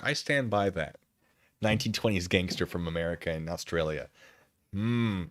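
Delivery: normal talking voice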